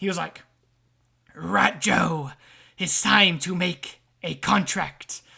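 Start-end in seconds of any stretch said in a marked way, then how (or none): 1.4-5.2 sinister, creepy voice, very slow. Retelling how a creepy little guy in his head spoke, doing an impression. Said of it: "I'm gonna do a fucking good impression of him".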